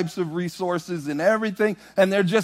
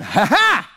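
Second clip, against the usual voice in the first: gleeful ha ha; 4 semitones higher, 5 dB louder than usual. Retold or imitated. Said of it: "I went".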